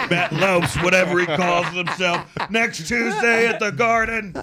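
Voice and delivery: a light ring announcer call, slowing at the end; wrestling announcer. Retold or imitated. Joking friend reframes the name as a wrestling intro. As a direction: hype it like a fight billing. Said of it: "like you were about to pro wrestle him".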